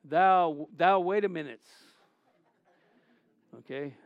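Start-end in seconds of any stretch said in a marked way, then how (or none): 0.0-1.6 lightly mocked archaic Bible talk; a hint of stilted thee-and-thou speech; mock King James speech. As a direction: playfully put on King James English. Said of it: "walk around talking like that".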